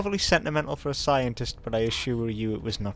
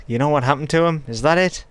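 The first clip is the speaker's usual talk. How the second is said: urgent demand; 4 semitones higher, 5 dB louder than usual. Acted. Horizon demanding about her son.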